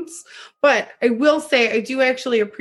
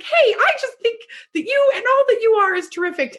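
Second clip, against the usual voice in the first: imitated effusive praise; 10 semitones higher than usual. Acts mother praising stranger at bar.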